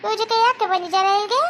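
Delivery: light put-on Chinese accent in Kannada; puzzled girlfriend, lightly accented; Chinese girl accent. Chinese girlfriend asks Manoj about the family, in a Chinese accent.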